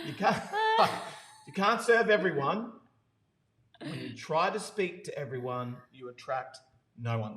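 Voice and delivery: loud, laughing try at Geordie; Geordie accent. Pretend. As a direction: break up laughing mid Geordie quote. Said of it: "Geordie accent".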